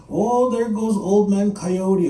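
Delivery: slow, drawn-out teasing; mocking jeer. Animal people making fun of old man Coyote, mocking drawl. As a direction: draw it out to poke fun. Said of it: "animal people make fun of me".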